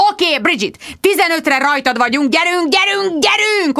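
high, urgent shout, climbing; yelling orders. A narrator's reading. Richard yells at Bridget through her headset from London. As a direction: drive them on, pitch rising to the end. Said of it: "ordította Richard Finch Londonból a fejhallgatómba".

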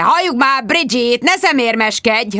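hangos, magas harsogás; bőgés. A narrator's reading. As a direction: mindenki előtt rábőg. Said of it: "Richard Finch bőgött". (a főnök harsányan ráordít)

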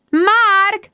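magas, hangos rikoltás; visítva kiált a férfi után. A narrator's reading. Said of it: "rikoltott Rebecca". (éles, magas, hangos kiáltás)

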